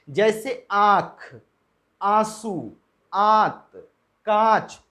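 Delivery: आँख, आंसू, आंत, कांच said slowly with nasalised vowels; pronunciation demo. Shown as a demonstration. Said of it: "अब इसको बोल करके देखें". (अनुनासिक शब्दों का धीमा उच्चारण)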